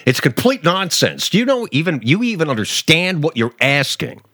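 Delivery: high-pitched, worked-up mimicry of an interpreter; mock-indignant translator voice; animated interpreter. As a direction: imitate an exasperated interpreter, pitched well up. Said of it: "the way the interpreter is animated".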